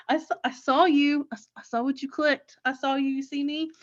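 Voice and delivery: halting mock-stalker confession; mock creepy. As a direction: lightly imitate an overeager snooper. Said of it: "Don't be creepy".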